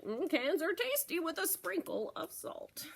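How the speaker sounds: lightly voiced hungry goat; Mister Goat voice. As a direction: relish the thought of tasty cans. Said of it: "Mister Goat nodded".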